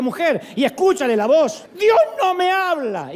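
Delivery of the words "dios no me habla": mock complaint. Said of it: "cuando un creyente dice".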